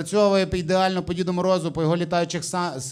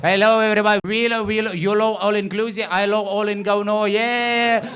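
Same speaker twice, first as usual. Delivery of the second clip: hammed-up Indian call-centre greeting; Indian jury announcer; 4 semitones higher than usual. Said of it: "Індуси такі".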